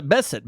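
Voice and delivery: Bassett stressed on the front, "BESS-it"; light second syllable in Bassett; guessed pronunciation. Shown as a demonstration. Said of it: "however the hell you".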